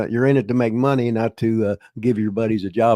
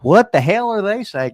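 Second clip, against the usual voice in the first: inner bewilderment; 9 semitones higher, 5 dB louder than usual. Retold or imitated. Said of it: "I'm thinking".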